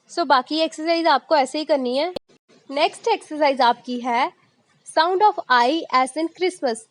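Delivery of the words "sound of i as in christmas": reads the title very slowly; slow heading read. Shown as a demonstration. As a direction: dictate it word by word. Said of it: "जैसे हम Christmas बोल रहे हैं". (धीरे-धीरे बोलना)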